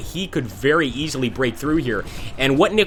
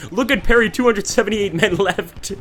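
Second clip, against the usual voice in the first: high, louder exclamation breaking into a laugh; gleefully pitying, pitched up; amused dismay; 7 semitones higher, 3 dB louder than usual. Real, not acted. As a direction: laugh at the sorry troop count. Laughing at a depleted unit.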